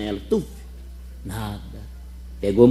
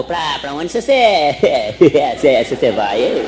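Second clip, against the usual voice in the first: stuttering husband. Acted. Marido gago pergunta.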